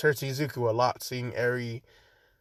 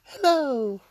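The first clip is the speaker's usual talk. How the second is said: high-pitched British greeting; pitched-up, put-on British character voice; Nezu; 11 semitones higher than usual. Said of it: "I don't know why I made him British".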